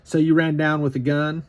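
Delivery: lady from Maine asking in disbelief; incredulous question. Retold or imitated. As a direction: ask it like you can't believe it. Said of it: "she goes".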